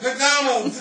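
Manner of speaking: put-on high, loud excited kid shout. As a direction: cheer it like a thrilled child. Kids shouting their dinner choice.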